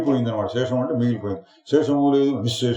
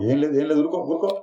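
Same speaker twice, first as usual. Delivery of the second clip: self-soothing; 4 semitones higher, much faster than usual. Acted. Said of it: "తనకు తానే బోధించుకుంటున్నాడు".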